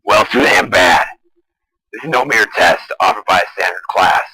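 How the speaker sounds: loud villain snap at refusal; angry villain. Acted. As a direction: bark it back, furious. Villain snaps at refusing student.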